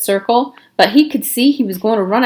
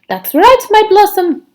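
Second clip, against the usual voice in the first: high, louder fond reply; doting father; 12 semitones higher, 6 dB louder than usual. A narrator's reading. Father answers Myra in a high, loud doting voice. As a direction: dote on your daughter. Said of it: "said her father".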